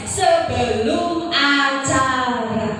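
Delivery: slow, deliberate phrase; drawn-out emphasis. Real, not acted. Telling trainee MCs when they may protest, drawn-out emphasis. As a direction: stretch the words out slowly.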